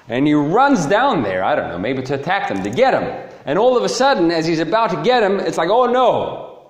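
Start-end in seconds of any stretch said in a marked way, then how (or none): 5.7-6.6 high, hammed-up "uh-oh" dismay; mock freaking out. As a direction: lightly act out sudden alarm. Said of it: "he starts freaking out".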